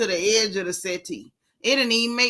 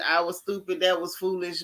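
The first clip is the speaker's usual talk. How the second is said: imitating his empty apology, pitched lower; mock insincere regret; 4 semitones lower, 3 dB quieter than usual. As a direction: parrot his regret as if not meant. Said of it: "don't even sound like you meant that".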